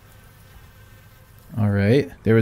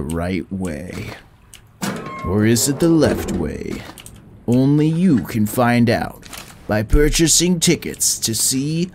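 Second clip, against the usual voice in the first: slow, dramatic movie trailer announcer; horror trailer voice. Acted. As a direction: sell the spooky summer blockbuster.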